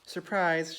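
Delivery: high, loud gleeful shout; excited shout. A narrator's reading. Amelia springs the surprise on the guest, excited shout. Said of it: "shouted Amelia Bedelia".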